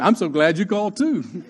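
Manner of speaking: chuckling through the thought; relieved kid laughing at the reprieve; laughing inner relief. Retold or imitated. Kid laughs, grateful for the phone call. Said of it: "thinking in my mind".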